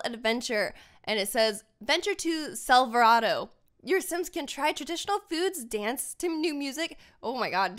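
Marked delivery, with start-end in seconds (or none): 1.8-7.0 flat robotic reading. Real, not acted. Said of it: "did I just read that like a robot?".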